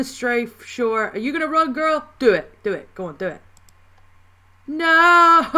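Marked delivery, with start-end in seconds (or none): 4.7-5.5 loud, high cry of no; yelled no. Real, not acted. Player failing the round, shouting loud and high. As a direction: shout the no in dismay. Fails again, yells.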